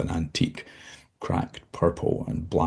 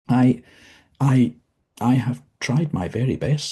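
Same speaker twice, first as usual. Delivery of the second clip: higher, stammering, fearful pleading; frightened stammer; 6 semitones higher, 3 dB louder than usual. Acted. Dozzie pleads with the visitor, frightened and stammering. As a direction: stammer out your innocence in fear.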